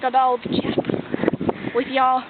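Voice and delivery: slow whispered British chap; fake British accent. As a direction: breathe it like a stuffy English gent. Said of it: "adding some British".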